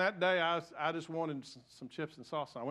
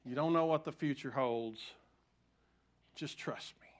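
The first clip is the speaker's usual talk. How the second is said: gentle comforting whisper of God; soft gentle voice; 4 semitones lower than usual. Retold or imitated. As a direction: speak it tenderly and softly, like a quiet inner voice. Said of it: "It was a soft, gentle voice that said".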